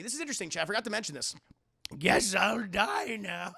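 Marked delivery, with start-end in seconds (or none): 2.0-3.5 laughing. Acted. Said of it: "mock dying line".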